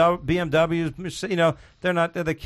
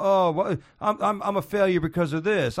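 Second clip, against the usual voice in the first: higher, self-pitying comic whine; Dangerfield impression; 5 semitones higher than usual. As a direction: moan like a failing comic. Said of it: "Are you doing Dangerfield right now?".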